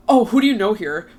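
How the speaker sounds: a touch of a loud challenge, imitating the guy; mildly aggressive guy's demand; mock confrontational. Stranger at the bar challenging her, mildly confrontational. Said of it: "sounded, like, mad confrontational".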